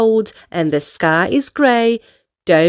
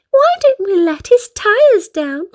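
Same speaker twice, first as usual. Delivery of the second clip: higher, chuckling sly suggestion; 9 semitones higher, 3 dB louder than usual. A narrator's reading. Miss Naughty proposing a prank to Mister Worry, chuckling. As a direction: chuckle the idea out. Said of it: "chuckled Little Miss Naughty".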